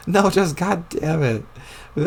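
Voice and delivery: real giggles breaking through each shut up; trying to say it but laughing; helpless laughing fit between words; breaking into laughter. Real, not acted. Actor keeps cracking up.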